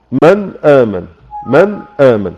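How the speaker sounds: من آمن with the نون pronounced clearly, no nasal hiding; clear izhar demo. Shown as a demonstration. Teacher demonstrating the clear نون in من آمن. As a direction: say the نون of من fully and separately before آمن. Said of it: "في الإظهار قلنا".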